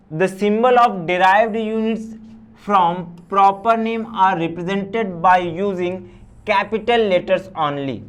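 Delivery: reading a rule word by word, very slow; slow read-aloud. Acted. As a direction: dictate the English rule slowly to the class. Reads rule aloud slowly. (नियम को बहुत धीरे पढ़कर सुनाना)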